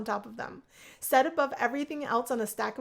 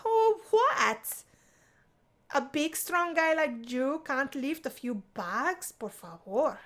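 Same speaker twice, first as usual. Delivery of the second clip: mock disbelief; 3 semitones higher, slower than usual. Isabella teasing Rakesh.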